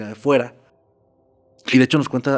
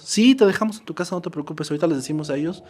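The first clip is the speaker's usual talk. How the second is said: voiced higher, a soothing, easygoing promise; reassuring men; 6 semitones higher, faster than usual. Two strangers calming the nervous girl, a higher, coaxing reassurance. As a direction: coax her with a higher, friendly voice.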